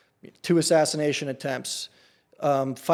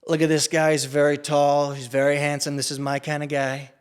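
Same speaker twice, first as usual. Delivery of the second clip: light Trump voice, showing off a guy; a hint of the president bragging about someone; Trump impression. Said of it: "with your impersonation".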